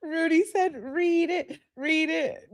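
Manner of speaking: high, soft squeak through giggles; giggly, high and small; laughing. Real, not acted. Still giggling, quotes chat.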